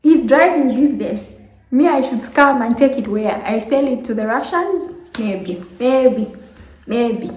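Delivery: high, loud outraged retort; mock outrage at the accusation; indignant disbelief. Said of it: "I'm like".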